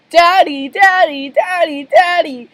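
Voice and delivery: put-on high, loud little-girl calling; squealing for Daddy at a high pitch; excited daughter. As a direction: pester Dad with eager, repeated shouts. Pearl runs in to her father.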